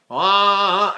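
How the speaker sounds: nasal ah sung into the nose. Shown as a demonstration. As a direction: push the sound into the nose. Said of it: "it puts my voice in my nose".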